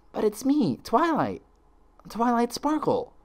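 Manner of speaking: high, slow, frightened plea; desperate pleading. Acted. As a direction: beg them to recognise you. Twilight pleads with friends.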